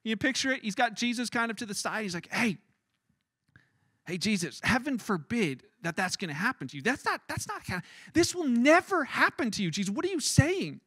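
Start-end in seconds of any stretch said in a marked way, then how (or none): 2.3-10.8 protesting reprimand. Acted. Peter pulls Jesus aside to reprimand him, rising protest. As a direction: scold him in alarmed disbelief.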